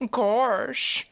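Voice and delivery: drawn-out cartoon "gorsh"; Goofy voice. Shown as a demonstration. Streamer testing a Valley Girl voice, sliding into Goofy. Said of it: "the goofy voice is really close".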